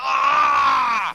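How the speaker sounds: shrill, very high scream of pain. Voicing a character struck by lightning: screaming in pain. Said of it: "screams in pain".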